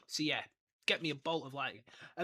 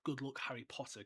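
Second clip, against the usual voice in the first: lightly voiced movie farewell; a soft hint of the film Dumbledore; 3 semitones lower, 8 dB quieter than usual. Preferring the movie's line over the book's, softly quoted. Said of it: "I, I actually prefer the".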